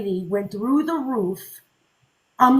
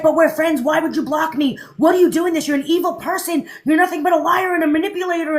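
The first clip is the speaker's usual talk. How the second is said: higher, louder accusing fan voice; hurt fan lashing out, pitched up; mock angry fan; 4 semitones higher, 3 dB louder, faster than usual. Fan accusing the blocking creator, higher and louder. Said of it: "And she's like".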